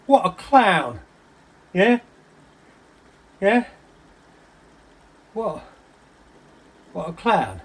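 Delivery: scornful, agitated outburst; worked-up rant. Acted. Agitated rant about the other man.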